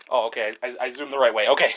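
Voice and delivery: panting between words; out of breath. Real, not acted. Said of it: "Excuse my out-of-breathness".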